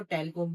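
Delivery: "टेल कोम" run together with a short e, like telcom; mispronounced tail comb. Shown as a demonstration. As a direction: say "टेल कोम" as the common mistake, short-vowelled "tel-kom". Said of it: "बिल्कुल टेल कोम नहीं कहना". ("टेल कोम" छोटे ए के साथ, "टेलकॉम" जैसा ग़लत उच्चारण)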